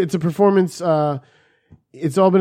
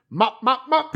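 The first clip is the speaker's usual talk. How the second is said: much higher squeaky mop mop; imitated sing-song mop; 10 semitones higher than usual. Friend's daily chore chant, imitated in a squeaky high voice. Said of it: "all I hear is".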